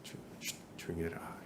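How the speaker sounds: hushed shh, then a soft command to be quiet; shushing whisper. Shown as a demonstration. Pastor showing how to hush a complainer, whispering. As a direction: hush the complainer firmly under your breath. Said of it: "이렇게 얘기해줘야 되는 거예요".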